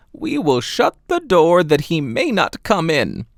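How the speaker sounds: lightly high grandmother; lightly voiced grandmother. Grandmother's reply.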